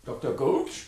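loud, high call across the house. Acted. Professor calling for the doctor through the smoke, loud. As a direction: shout for him through the smoke.

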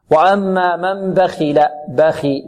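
slow recited بخل with only slight weight on خ; restrained tafkheem. Shown as a demonstration. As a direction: keep the خ of بخل lightly heavy, clean i vowel. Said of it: "وكذلك لا نبالغ هنا". (بخل بخاء غير مبالغ في تفخيمها)

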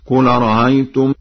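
أرأيتم chanted with its second hamza eased; softened second hamza. Shown as a demonstration. Teacher shows Warsh's first option, chanting أرأيتم with eased hamza. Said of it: "بتسهيل الهمزة الثانية بين بين".

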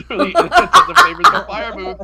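high, loud, laughing through words. Real, not acted. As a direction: crack up mid-sentence. Joking about Jim Beam fire.

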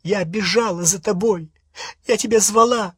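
high, rising reproach; shrill wounded anger; accusing. Acted. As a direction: hurl each accusation at him. Hermione accusing Ron.

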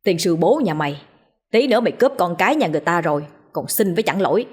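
mildly menacing scolding; understated grumbling anger; growling threat. Acted. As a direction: threaten the spirit, unmoved by its pleas. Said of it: "vẫn hầm hè mà nói".

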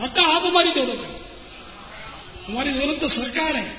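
fervent cry. Real, not acted. Preacher declaring the Prophet his true wealth, fervent and loud. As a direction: proclaim it with rising devotion.

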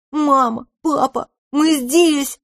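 high, slow calling out to parents; excited calling. A narrator's reading. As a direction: call out joyfully, high. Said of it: "закричали мышевраг и одуванчик".

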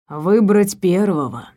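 almost tender. Acted. Elvin to the cornered girl, slow and almost tender. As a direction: say it gently, with menace under it. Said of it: "пояснил Элвин почти ласково".

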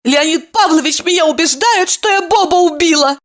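high, distressed exclaim; fluttering cries for help. A narrator's reading. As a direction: cry it out in dismay. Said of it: "воскликнула Ева".

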